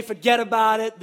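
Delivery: light New York "Forget about it"; New York accent. Retold or imitated. Pastor trying the New York way of saying it, light New York accent. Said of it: "the New York way".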